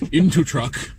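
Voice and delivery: loud high caveman command; urgent shout. Retold or imitated. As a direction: bark the order to flee. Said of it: "He says".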